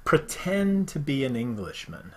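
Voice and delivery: a put-on English accent, slow. Host reading a saying in a mock English accent. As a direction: say it like a proper Englishman. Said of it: "I said the English accent".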